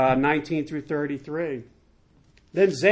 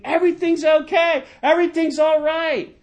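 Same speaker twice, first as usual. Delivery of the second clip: very high, loud hammed-up shout; crying out; 12 semitones higher, 6 dB louder than usual. A narrator's reading. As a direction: holler the all-clear from afar, pitch way up. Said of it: "cried out to the king".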